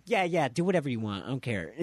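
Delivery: quick, offhand brush-off; mock dismissive. Chi-Chi letting Goku go train, quick mock dismissal. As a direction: wave them away in a hurry.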